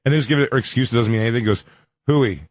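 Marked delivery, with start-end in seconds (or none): 2.1-2.4 "Huey" said as HOO-ee; fan's wrong "Huey", no y glide; mispronounced Huey. Acted. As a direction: greet him with "Huey" like "hooey". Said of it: "I'm gonna call him Huey".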